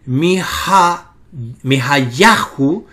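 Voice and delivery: mi ha yahu slowly, leaning on the YA of yahu; deliberate mi ha yahu, weight on penultimate syllable; stress on YAHU. Shown as a demonstration. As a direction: sound out mi ha yahu with the accent on ya. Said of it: "El acento se encuentra".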